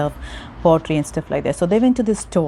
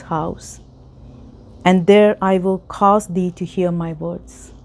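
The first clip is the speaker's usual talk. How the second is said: emphatic, measured Bible reading; scripture reading; 4 dB louder than usual. Acted. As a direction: proclaim the verse phrase by phrase. Reads scripture passage aloud.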